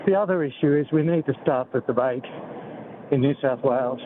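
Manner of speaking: breathless from walking; short of breath, words between gasps. Real, not acted. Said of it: "oh, I'm out of breath".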